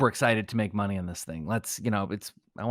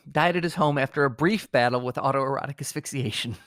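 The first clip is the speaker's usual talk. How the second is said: measured, dignified newsreader tone; solemn obituary read. Acted. Host reads a paid obituary with gravitas, solemn and measured. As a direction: read it like a somber death notice.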